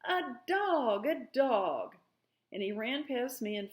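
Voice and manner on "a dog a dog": put-on high, loud child's hollering. A narrator's reading. Little boy hollering about the dog, high and loud. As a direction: shout it out like a thrilled little boy. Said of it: "He was hollering".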